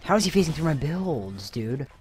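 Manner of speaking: loud, high exasperated shout; frustrated yell. Real, not acted. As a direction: yell in disbelief at the screen. Frustrated at enemy player.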